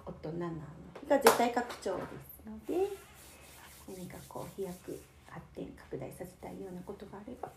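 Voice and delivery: prim ladylike ojousama speech; haughty rich girl japanese. Acted. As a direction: put on an elegant rich girl voice. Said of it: "なんかちょっと変わりましたね".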